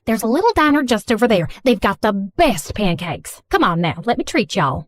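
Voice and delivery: Southern mom, gushing apology; Southern accent. Acted. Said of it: "speaking in a thick Southern accent".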